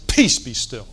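loud, firm command to the storm; commanding rebuke. Retold or imitated. Jesus rebuking the wind and waves, a loud command. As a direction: order the wind to be still.

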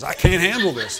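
hammed-up exasperated outburst; mock freak-out. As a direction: imitate someone freaking out. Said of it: "He's freaking out".

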